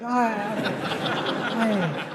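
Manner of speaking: soft, hammed-up groan of pain; mock pained groan. Husband straining to praise his wife, mock pained groan. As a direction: groan as if your ribs ache. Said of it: "your ribs hurt".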